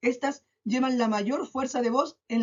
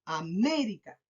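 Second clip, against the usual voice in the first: América with ME drawn out and stressed; 2 semitones lower, slower than usual. Shown as a demonstration. Teacher showing pupils the tonic syllable, ME stressed in América. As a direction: lean on ME in América. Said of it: "marco la palabra en me".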